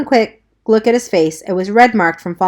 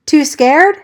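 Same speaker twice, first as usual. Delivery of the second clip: shouting over fire; 8 semitones higher, 5 dB louder than usual. Acted. Shouting in burning church.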